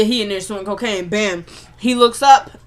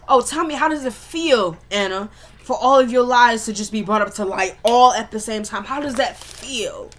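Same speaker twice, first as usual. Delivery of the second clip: mock-curious jab, drawing out the last question; acted taunting. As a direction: needle her as you retell the confrontation. Acted confrontation, taunting Anna.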